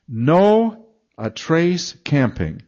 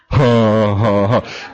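mock guffaw; 4 semitones lower, 5 dB louder, much slower than usual. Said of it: "that's uproarious laughter".

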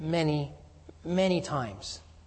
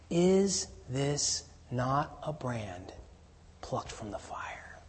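slow, fading into a whisper; reverent hush; 6 dB quieter, much slower than usual. Acted. The Lord's rescue of the priest, slow and whispered. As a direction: let it sink to a tender whisper. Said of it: "the beauty of that response".

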